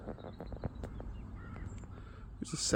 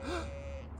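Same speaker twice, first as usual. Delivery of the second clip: mock gasp; 10 dB quieter than usual. Brother's gasp before asking mother.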